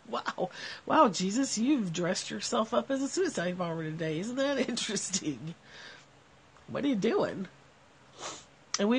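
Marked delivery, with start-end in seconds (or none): 0.1-7.5 amused mock greeting. Shown as a demonstration. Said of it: "in her head she would say".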